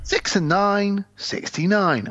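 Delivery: drawn-out six and nine; sing-song caller call; slow bingo call. Retold or imitated. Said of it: "the guy would always say".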